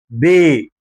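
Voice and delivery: "بي" as a voiced bé, no puff; lips-out B. Shown as a demonstration. Teacher contrasting it with the airy P, voiced bé. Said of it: "وانت شفايفك لبره كلها".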